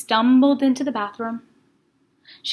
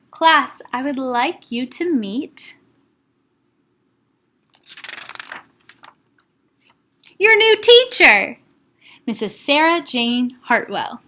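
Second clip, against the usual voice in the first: grand announcement; 5 dB louder than usual. A narrator's reading. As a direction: build it up like a big announcement. Principal announces new teacher.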